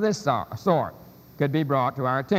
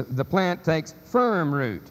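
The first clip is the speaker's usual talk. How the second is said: "firm" stressed, taken slowly; slow down and lean on "firm"; stress on the supplied word; slower than usual. Shown as a demonstration. Lecturer reading out an italicized word, "firm" stressed. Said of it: "just to emphasize the word".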